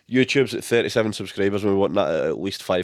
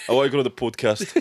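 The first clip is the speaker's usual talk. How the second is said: laughing mimicry. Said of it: "you just said it wrong".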